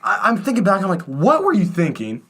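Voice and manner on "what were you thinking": higher, drawn-out incredulous question; hammed-up exasperation; mock scolding. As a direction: scold your younger self in disbelief. Scolds his childhood self.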